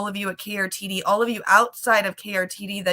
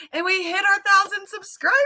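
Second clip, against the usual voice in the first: excited; 12 semitones higher, 3 dB louder than usual. Real, not acted. Announcing milestone, voice climbing.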